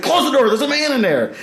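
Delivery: high-pitched mock panic; urgent warning, voiced high in retelling; retold alarm. Retold warning at the toilet door.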